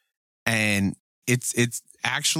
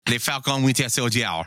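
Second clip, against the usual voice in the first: mock French accent on the title; terrible French accent; 2 semitones higher than usual. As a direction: put on a bad French accent. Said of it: "Greg do a terrible French accent".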